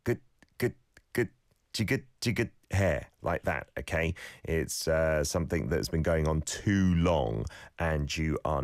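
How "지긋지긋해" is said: 지긋지긋해 with the 시옷 받침 cut off hard in the back of the throat; throat-closed final. Shown as a demonstration. Host models the bottom consonant for listeners, clipped in the throat. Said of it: "a sound in the back of your throat".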